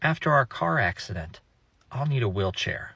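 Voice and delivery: put-on soft, innocent little-boy voice; innocent child voice. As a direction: say it sweetly, with no idea how creepy it is. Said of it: "in his perfectly innocent four-year-old voice".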